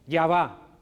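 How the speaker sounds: defiant retort, loud first words then easing. Shown as a demonstration. Child busy chatting refuses parent's request, mildly defiant. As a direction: push back at a request, acted lightly. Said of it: "un tono, digamos, desafiante, vas a decir".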